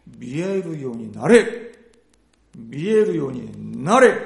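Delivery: commanding. Acted. Jesus commanding healing.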